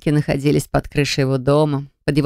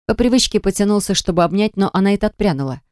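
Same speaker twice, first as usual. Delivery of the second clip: ordinary delivery, nothing marked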